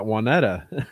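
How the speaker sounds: Juanetta said "wah-NET-uh"; short E in Juanetta; newcomers' pronunciation. Retold or imitated. Explaining what newcomers call the street, newcomers' pronunciation. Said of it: "the new people that moved in".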